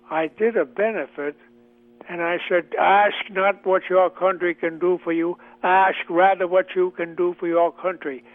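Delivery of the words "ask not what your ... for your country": put-on a light Boston accent in a measured podium cadence; President Kennedy impression. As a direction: lightly imitate a Boston-accent president's famous speech line. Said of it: "I'm doing an impression of, uh, President Kennedy".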